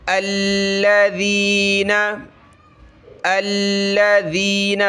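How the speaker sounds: الذین with the ذ said softly, tongue slightly out; slow recitation of الذین, tongue between the teeth on ذ; soft interdental dh in الذین; soft dhal. Shown as a demonstration. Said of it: "ذال پہ تھوڑی سی زبان باہر نکالیں".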